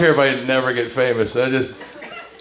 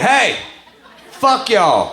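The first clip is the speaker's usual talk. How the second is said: raised-pitch Southern challenge; indignant calling out; 4 semitones higher, much slower than usual. Retold or imitated. Southerner telling off newcomers, indignant call-out. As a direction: call them out with a high, punchy hey. Confronts people saying "you guys.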